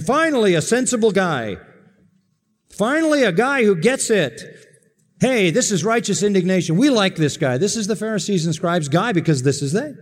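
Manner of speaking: a self-satisfied religious man, lightly played; smug Pharisee voice. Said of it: "they would be saying".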